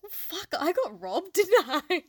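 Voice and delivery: high, laughing mock grievance; mock complaint laughing. Sister joking to friend she got a bad brother, laughing. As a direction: joke that you got robbed, laughing. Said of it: "And I was like".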